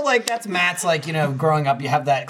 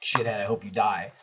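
venomous; 7 semitones lower, 7 dB quieter than usual. Retold or imitated. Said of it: "I'd say".

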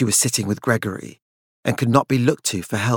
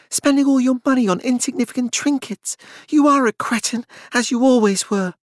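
higher, scornful woman's voice; contemptuous; 13 semitones higher than usual. A narrator's reading. Claudia sneering at Francis, higher and contemptuous. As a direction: spit the insult at him in disgust. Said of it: "Claudia spat".

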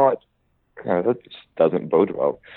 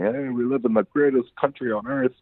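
higher, put-on American accent; 6 semitones higher than usual. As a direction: say it like a proud American. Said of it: "That was your American accent".

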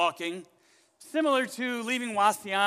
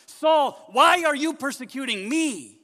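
much higher and louder, slow and commanding; booming voice of God; 8 semitones higher, 10 dB louder, slower than usual. Shown as a demonstration. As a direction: call out to Saul with full divine force. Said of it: "Why did God not say".

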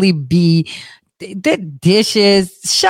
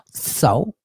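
lower, softer unimpressed question; dismissive; 4 semitones lower, 6 dB quieter than usual. Acted. Host shrugs off the accusations, low and dismissive. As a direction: brush it off quietly.

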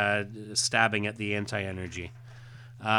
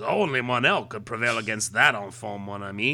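hammed-up French-accented comic hero; bad French accent; 2 semitones lower than usual. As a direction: read it with a rough French accent. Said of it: "do a bad French accent".

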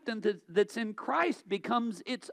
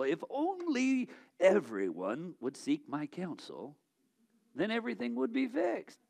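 mock self-importance; 5 dB quieter than usual. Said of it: "we just gotta pause and say".

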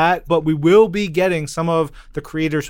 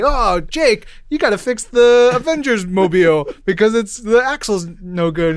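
higher, louder mock call to the mechanic; 5 semitones higher, 4 dB louder than usual. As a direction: hail the Avengers mechanic, playful. Voicing Avengers calling mechanic.

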